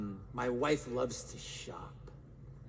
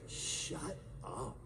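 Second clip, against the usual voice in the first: soft breathy dismissal, much softer; whispered brush-off; 5 semitones lower, 10 dB quieter than usual. Retold or imitated. Brain rejecting fake affirmations, whispered shut up. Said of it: "My brain goes".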